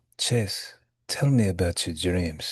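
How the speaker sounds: put-on, very sensual, sultry, seductive bedroom voice. Acting out asking a partner about their dreams: put-on very sensual voice. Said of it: "say in a very sensual voice".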